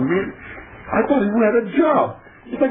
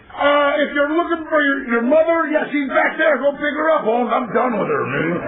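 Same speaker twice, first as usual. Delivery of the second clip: cute wisecrack; 6 semitones higher than usual. Retold or imitated. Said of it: "I'd say something real cute like".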